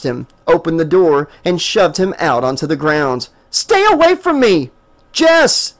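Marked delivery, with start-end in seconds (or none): 3.5-4.7 Jessica shoves Stephen from the car, screaming; shrieking. A narrator's reading. Furious scream. 5.1-5.7 high, loud desperate yell. A narrator's reading. Desperate yell. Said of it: "Stephen yelled".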